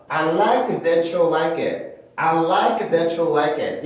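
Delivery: "that you" fused into "tha-chew"; linked ch sound. Shown as a demonstration. Teacher showing the first method, joined ch sound. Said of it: "처럼 발음을 할 수는 있어".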